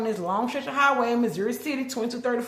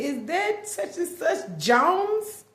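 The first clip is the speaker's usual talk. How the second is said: imitating the operator; 9 semitones higher, 6 dB louder, much slower than usual. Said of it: "this lady say".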